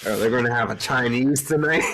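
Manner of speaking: put-on British question; mock British accent. Host teasing British listeners about takeaway, mock British accent. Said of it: "lost all of our British listeners".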